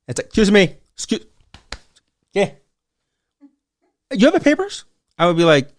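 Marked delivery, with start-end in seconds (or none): 0.3-4.8 mock Karen, prim and pitched way up on the last question. Vendor mimics a Karen demanding to see his papers, prim mock voice. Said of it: "A Karen".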